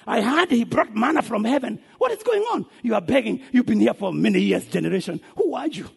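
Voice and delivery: mocking challenge. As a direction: pitch leaping on the questions. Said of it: "they will go and say".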